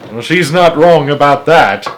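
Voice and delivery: chuckling through the comment; laughing aside. Real, not acted. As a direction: laugh as you say it. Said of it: "narrator laughs aside".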